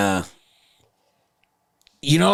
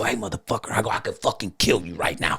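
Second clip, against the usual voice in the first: low threat; 3 semitones lower, 6 dB quieter than usual. Retold or imitated. Pinning him, low threat.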